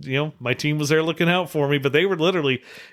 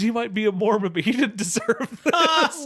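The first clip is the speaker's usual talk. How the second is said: a higher-pitched, lightly voiced big guy, breaking into a laugh; mock burly guy; 9 semitones higher than usual. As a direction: play the burly guy, laughing through the last word. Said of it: "He says".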